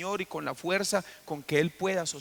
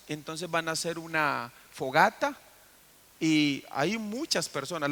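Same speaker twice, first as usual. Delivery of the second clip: ordinary delivery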